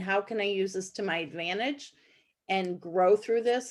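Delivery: ordinary delivery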